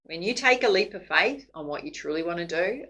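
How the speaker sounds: ordinary talk, nothing marked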